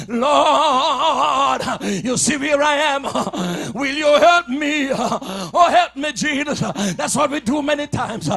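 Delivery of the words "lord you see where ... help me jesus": pleading prayer. Acted. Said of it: "Holly was saying".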